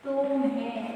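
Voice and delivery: तुम्हें soft and low, no pressure on the first syllable; no stress. Shown as a demonstration. Teacher giving an example word, तुम्हें said with no stress. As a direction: say तुम्हें gently, without any push. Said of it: "क्या जोर पड़ा इस पे".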